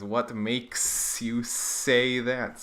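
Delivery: drawn-out, very slow talking snake. Acted. Comic book snake answering the plumber, very slow. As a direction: stretch every word like a sly snake.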